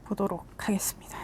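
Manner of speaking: unvoiced soft whisper. Real, not acted. Tarot reader whispering to viewers. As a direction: breathe the words out in a whisper. Closing a segment softly.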